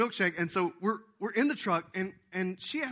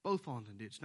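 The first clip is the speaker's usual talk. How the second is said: quoting Jesus; 4 semitones lower, 4 dB quieter than usual. Retold or imitated. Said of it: "That's why Jesus told them".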